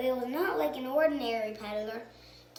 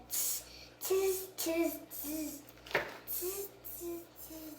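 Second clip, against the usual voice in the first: chattering, fading away softer; monkey chatter; 4 semitones higher, 6 dB quieter, slower than usual. Acted. Monkeys mocking the angry peddler, fading chatter. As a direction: monkeys mocking back, trailing off.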